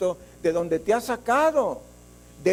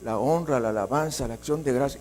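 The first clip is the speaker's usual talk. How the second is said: lower, softer prayerful praise; imitating someone pausing to worship softly; hushed worship; 7 semitones lower, 4 dB quieter than usual. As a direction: drop into quiet adoration mid-letter. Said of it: "y de pronto".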